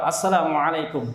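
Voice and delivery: Arabic pronunciation, full vowels and throaty ain; Arab-style greeting. Shown as a demonstration. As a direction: greet in a careful Arabic accent. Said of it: "Salam kayak orang Arab". (salam logat Arab yang fasih)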